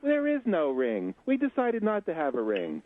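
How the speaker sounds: a hint of put-on feminine voice; engaged woman. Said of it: "And she says".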